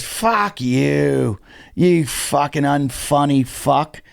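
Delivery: drawn-out imitated drunken insult; drunk heckler. Drunk heckler cursing the comic, slurred and dragging. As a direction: slur it slowly like a drunk. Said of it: "And the guy goes".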